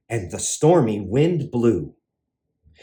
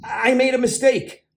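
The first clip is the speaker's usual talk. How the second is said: nervous dragon; 6 semitones higher than usual. A narrator's reading. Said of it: "started to shake".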